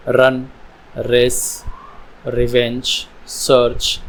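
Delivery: one word at a time, sounding the R in रन and रेस; R sound shown. Shown as a demonstration. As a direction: model a clear R in रन, रेस, रिवेंज, सर्च. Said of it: "sound निकल रही है र". (रन, रेस, रिवेंज में र की साफ़ आवाज़)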